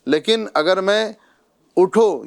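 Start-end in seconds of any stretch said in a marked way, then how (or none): 1.8-2.2 اٹھو set alone, followed by a stop; اٹھو as its own command; stop after اٹھو. Shown as a demonstration. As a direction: say اٹھو and halt. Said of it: "یہاں پر رک رہا ہوں".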